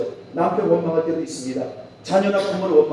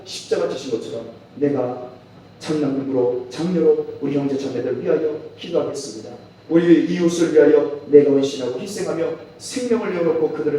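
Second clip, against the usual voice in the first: prayer. Acted. Pastor leading the evening prayer, earnest and subdued. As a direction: pray it aloud, humbly.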